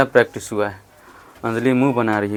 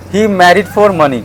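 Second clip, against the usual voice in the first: slow, deliberate sentence; slow model line; much slower than usual. Shown as a demonstration. Teacher models the line slowly for students. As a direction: drop it in slowly and clearly. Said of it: "क्या बोलेंगे?".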